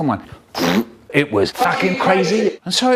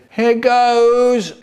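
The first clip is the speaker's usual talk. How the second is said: determined; 6 semitones higher, 4 dB louder than usual. Acted. Dad taking off under pressure.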